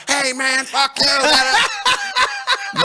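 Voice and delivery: very high, loud mock yell; whiny angry comeback. Storyteller mimicking beaten rivals answering back, high yelling. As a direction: squeal it like a sore loser.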